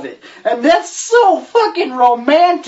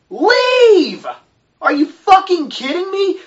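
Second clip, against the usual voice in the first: yelling at her; 8 semitones higher than usual. Real, not acted. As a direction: shout it at the screen. Yelling advice at the heroine.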